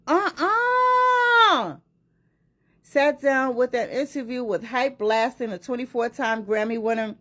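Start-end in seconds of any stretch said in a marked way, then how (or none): 0.1-1.8 high, loud drawn-out refusal; emphatic uh-uh. Real, not acted. Reacting to Choke's interview, an emphatic uh-uh. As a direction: shut it down with a long uh-uh.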